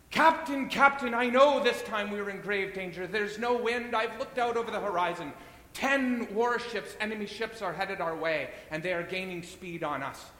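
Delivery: high, loud, panicked cry; hysterical first mate. Acted. First mate bursting in on the captain, hysterical and loud. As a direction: shriek the warning like the ship is already sinking. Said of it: "He's hysterical".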